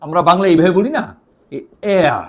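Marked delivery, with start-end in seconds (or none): 1.9-2.2 এয়া stretched and gliding; teaching the drawn-out Danish R. Shown as a demonstration. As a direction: pull এয়া long, with a drawl. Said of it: "এইভাবে টান দিয়ে বলতে পারেন".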